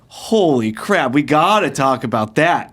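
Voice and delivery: drawn-out, eager "holy crap"; acting out keen interest; retold excitement. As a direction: stretch the opening words, thrilled by the topic. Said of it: "I was excited".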